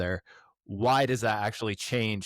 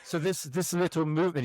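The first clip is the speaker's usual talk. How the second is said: a laughing, lightly put-on German accent, pitched higher; mock a German researcher through a laugh; terrible German accent; 7 semitones higher than usual. Retelling a German patient to the host, in a lightly faked German accent. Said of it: "terrible German accent".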